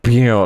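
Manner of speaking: vocal scratch effect, abrupt stop; record scratch sound. Shown as a demonstration. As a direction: mouth record scratch noise. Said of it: "like this, right?".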